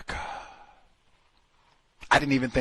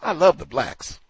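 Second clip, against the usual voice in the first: higher, louder goofy gushing; imitating Swango; 6 semitones higher, 4 dB louder than usual. Swango answering the locals, gushing mockery. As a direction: ham up the clueless enthusiast. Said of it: "He says".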